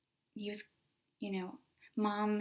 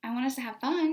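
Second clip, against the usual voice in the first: cheerful teacher encouragement; 4 semitones higher, 5 dB louder than usual. Retold or imitated. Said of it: "I was like".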